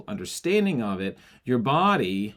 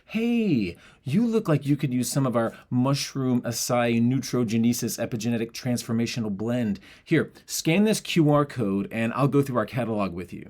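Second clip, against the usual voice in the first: pushy sales spiel. Shown as a demonstration. Pitching a supplement blend to a stranger, overeager. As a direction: sell them the powder whether they want it or not. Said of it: "that spiel".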